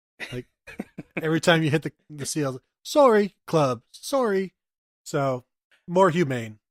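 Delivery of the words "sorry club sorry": put-on British accent, high-pitched and loud. Joking that the club apologizes each time it hits a seal, british accent. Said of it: "the club in a British accent says sorry".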